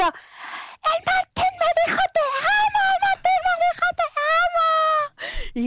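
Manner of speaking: put-on very high, slow, shrieking teen joy; excited squeal. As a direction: squeal it like a thrilled girl. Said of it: "me pegué un grito así ahogado". (chillido de emoción muy agudo y lento)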